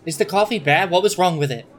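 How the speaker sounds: high, loud anxious questioning; worried cook. Acted. Cook questions a customer about the coffee, high and worried. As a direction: fret loudly over your coffee as the halfling cook.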